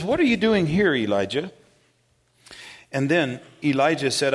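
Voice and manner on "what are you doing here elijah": forceful question. Acted. God's question, retold with force.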